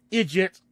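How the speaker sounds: "idiot" said as "eejit", with a J sound; Irish-style "eejit" for "idiot". Shown as a demonstration. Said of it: "D's sound more like J's".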